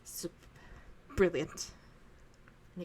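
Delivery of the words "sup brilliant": put-on louder pleased praise from the old wandmaker; Ollivander pleased. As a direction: praise the boy with delight. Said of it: "He goes".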